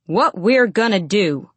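slow, mildly booming announcement; announcing. A narrator's reading. Manager announcing the punishment, booming. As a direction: lay down the verdict slowly and firmly. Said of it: "he announced".

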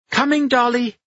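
loud high call back. A narrator's reading. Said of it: "Anna cried".

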